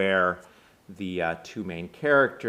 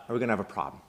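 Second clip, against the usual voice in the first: bad Boston accent; 3 dB quieter, much faster than usual. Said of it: "I don't do a good Boston accent".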